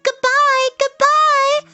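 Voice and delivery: very high, tiny spiders calling; called out. A narrator's reading. Baby spiders drifting away from Wilbur, calling out high. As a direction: sing out a loud, squeaky farewell. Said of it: "they called".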